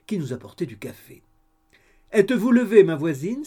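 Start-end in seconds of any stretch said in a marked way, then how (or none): 2.1-3.4 high, loud call through the door. A narrator's reading. Landlady calling to her neighbour through the door, loudly. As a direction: call out cheerfully from outside. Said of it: "s'écria-t-elle à la porte".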